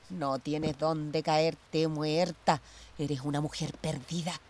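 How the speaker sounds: slow contemptuous laugh into a quiet insult; scornful laugh. Acted. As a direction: savour the cruelty, slowly. Mocking her sister.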